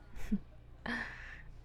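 short breathy chuckle; quiet, teasing huff of laughter; taunting chuckle. Acted. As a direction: laugh softly under the breath. Taunting partner in audio roleplay.

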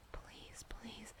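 barely audible breathy please; whispered plea. Acted. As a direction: breathe the Please, almost silently. Begging in intimate roleplay.

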